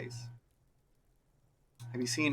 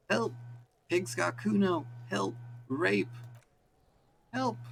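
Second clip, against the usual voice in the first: shouting for help; 10 semitones higher, slower than usual. Acted. Child yelling at the windows to frame the cop, shrill shout. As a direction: scream it out the window like you're under attack. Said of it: "the child shouts at the windows".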